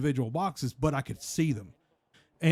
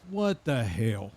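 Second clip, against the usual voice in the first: slow stunned What the hell; 4 semitones lower, slower than usual. Retold or imitated. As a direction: drag it out in disbelief. Dad stunned by request.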